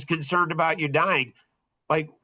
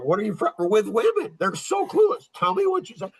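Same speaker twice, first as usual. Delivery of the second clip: mock mother; 4 semitones higher than usual. Mother's voice in retold talk.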